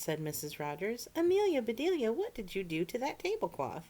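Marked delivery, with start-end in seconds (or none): 1.1-3.8 scolding. A narrator's reading. Mistress scolding the maid.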